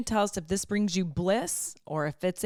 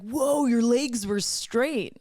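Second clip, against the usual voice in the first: put-on kids impressed; 4 semitones higher, much slower than usual. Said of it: "They were like".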